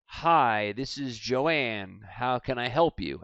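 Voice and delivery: soft, slow phone greeting; phone receptionist. Acted. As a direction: answer the phone softly and slowly. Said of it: "they answer the phone and they say".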